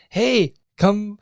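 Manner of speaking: high, loud attention-getting call; loud acted holler from atop the bar; calling out to a crowd. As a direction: hail the whole bar. Jumps on bar, calls crowd.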